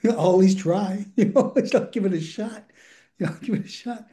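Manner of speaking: chuckling through an imagined answer; amused acted reply. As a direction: act out a willing patient, laughing. Amused acting of patient's answer.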